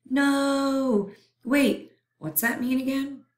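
high, urgent alarm; panicky germs. Acted.

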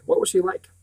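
lifted, curious ask; curious question. A narrator's reading. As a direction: ask it with eager interest. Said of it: "Will said curiously".

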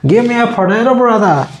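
hungry Joe repeats his plea in a mock Irish accent. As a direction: repeat the line in a lightly hammed-up Irish accent. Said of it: "He's Irish".

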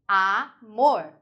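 "Amor" split slowly into A-mor, each part punched; slow, emphatic A... mor; syllable by syllable. Shown as a demonstration. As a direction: say "Amor" as two separate beats, A, mor. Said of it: "quando eu separo a sílaba".

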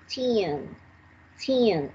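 "ten" drawn out with extra force; stress on ten. Shown as a demonstration. Teacher showing students where the force goes, stressed "ten". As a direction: lean hard and long on "ten". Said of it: "la fuerza de voz, donde tú vas a enfatizar".

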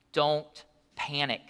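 each word laid down slowly; slow emphatic point. Shown as a demonstration. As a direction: spell out the key point slowly so they write it. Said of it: "write this down".

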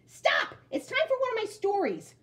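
high, loud bossy cry; loud protest. Acted. Bird demanding his story turn, loud. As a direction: shout to take charge. Bird shouting over Jack.

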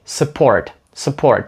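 "Support" as "s'port"; tiny first vowel, stress on port; reduced SUPPORT. Shown as a demonstration. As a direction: make "Support" nearly "sport". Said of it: "Звучить майже як спорт".

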